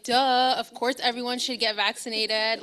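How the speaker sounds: stating the obvious with mock exasperation; a retold, how-could-you-not tone; exasperated duh. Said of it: "I'm like".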